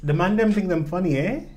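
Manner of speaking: mock Toronto slang accent. Host imitating how they talk here, mock Toronto accent. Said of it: "That's how they talk here".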